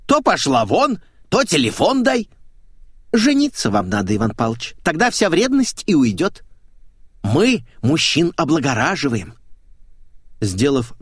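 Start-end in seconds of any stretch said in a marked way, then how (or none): 0.1-9.3 brash maid. Acted. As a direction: play a cheeky brash housemaid. Maid voiced in dialogue.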